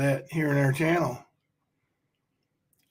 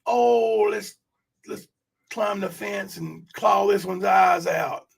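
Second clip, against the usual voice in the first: high, slow hammed-up yell at someone; mock catty shout; 4 semitones higher, slower than usual. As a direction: play it as a catty mock threat, higher and slowed. Acted catty quote, mock shout.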